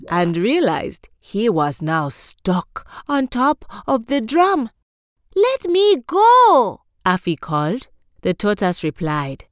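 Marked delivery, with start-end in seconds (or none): 5.4-6.8 high, loud, slow desperate plea; trickster tale voices. Acted. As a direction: cry out stuck and scared. Afi stuck on the drum.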